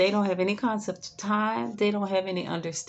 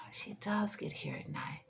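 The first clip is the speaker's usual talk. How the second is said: whispered reply; 3 semitones higher, 10 dB quieter than usual. Retold or imitated. Mom conceding, quoted.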